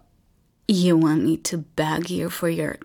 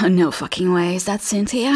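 sudden shock; faster than usual. Acted. Sudden interruption.

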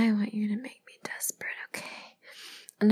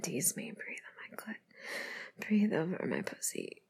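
very soft, slow whisper; hushed, teasing whisper; intimate whisper; 3 semitones lower, 6 dB quieter than usual. Pretend. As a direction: breathe the words out slowly. Intimate instruction to partner.

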